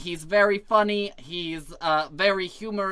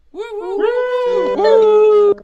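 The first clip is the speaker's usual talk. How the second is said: high, loud whooping cheer; loud high woo cheer; hype cheer; 13 dB louder, much slower than usual. Real, not acted. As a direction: whoop the crowd up for the act. Host hyping up comedian entrance.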